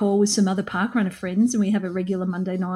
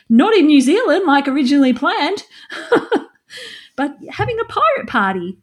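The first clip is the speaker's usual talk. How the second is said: laughing; 5 semitones higher, 4 dB louder than usual. Real, not acted. Laughing about anniversary plans.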